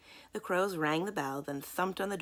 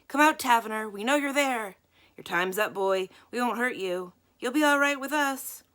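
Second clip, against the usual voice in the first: loud, higher calling out into the dark; shouting; 6 semitones higher, 8 dB louder than usual. A narrator's reading. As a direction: coax and threaten in a shout. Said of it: "They went on shouting".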